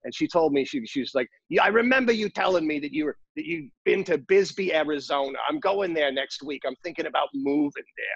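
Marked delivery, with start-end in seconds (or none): 1.4-8.1 put-on heavy Brooklyn accent laid on thick. Speaker retells what a woman said to them, in a thick brooklyn accent. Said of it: "this great thick Brooklyn accent".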